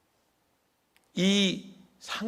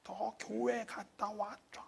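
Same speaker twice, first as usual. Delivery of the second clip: slow motion; 4 semitones higher, 13 dB quieter, slower than usual. Retold or imitated. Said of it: "슬로우 비디오로 보이는".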